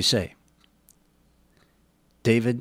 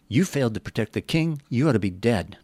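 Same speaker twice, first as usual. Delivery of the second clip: scolding; 2 semitones higher than usual. Retold or imitated.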